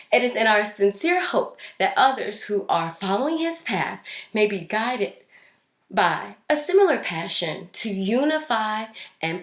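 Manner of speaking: pushing the words out while choked up; reading a donor letter through real tears. Real, not acted. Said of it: "Getting a little emotional".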